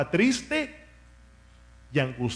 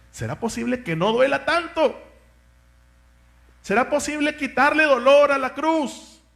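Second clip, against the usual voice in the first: anguished plea; 7 semitones higher than usual. Acted. Preacher voicing Jesus begging the Father, anguished and rising. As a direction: plead for the pain to be lifted.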